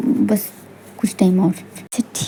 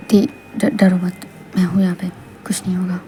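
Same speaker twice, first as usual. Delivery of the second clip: low, soft comfort; calm a frightened girl, low and close; reassuring; 3 semitones lower, 4 dB quieter than usual. Acted. (धीमी, दिलासा देती आवाज़)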